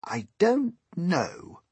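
high, slow grasshopper voice; drawn-out high reply; old grasshopper. A narrator's reading. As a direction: admit it slowly as the old grasshopper. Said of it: "the old green grasshopper said".

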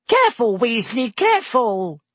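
high, urgent teacher's warning; alarmed cry. A narrator's reading. Professor Sprout warning Weasley about beans, high cry. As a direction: call out sharply, pitched well up. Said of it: "cried Professor Sprout".

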